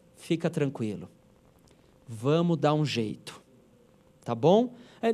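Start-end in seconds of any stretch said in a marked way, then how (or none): 0.2-3.5 velvety late-night radio announcer voice, lower and quieter. Showing how to calm a frightened person: velvety late-night radio voice. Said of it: "você fala desse jeito".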